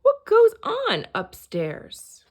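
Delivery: high, slow call upward; calling out upstairs. A narrator's reading. Moose calling up to the guests, high and slow. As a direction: call up to the guests on his head. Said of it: "he called out".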